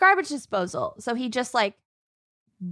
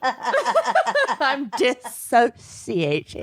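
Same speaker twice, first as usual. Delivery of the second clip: laughing; much slower than usual. Real, not acted. Laughing self introductions.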